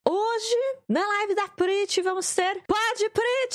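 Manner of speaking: high, slow hype announcement; excited shout. Real, not acted. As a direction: announce it like a show host. Announcing the show opening.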